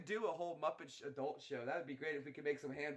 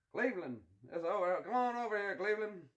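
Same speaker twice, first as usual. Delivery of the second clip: higher, louder, hammed-up hick call; redneck voice; 4 semitones higher, 5 dB louder than usual. Calling Cleveland over, loud redneck voice. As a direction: holler it like a country boy. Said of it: "I can do it".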